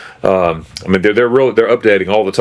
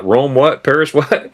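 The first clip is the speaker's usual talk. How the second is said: dismissive mock; 6 semitones higher, slower than usual. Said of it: "they're like".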